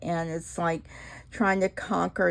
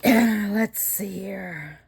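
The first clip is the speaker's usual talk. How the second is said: breathy whispered aside; whispered while working; 2 semitones higher, 4 dB louder, much slower than usual. Real, not acted. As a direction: whisper it to yourself.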